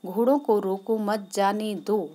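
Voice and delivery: "घोड़ों को रोको मत, जाने दो" said straight through with no break; run-on without pauses. Shown as a demonstration. Master orders servant without stopping at any word, run-on. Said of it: "बिना किसी शब्द पर रुके".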